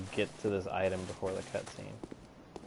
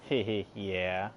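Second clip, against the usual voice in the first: nervous laugh; much slower than usual. Real, not acted. Nervous laugh after enemy scare.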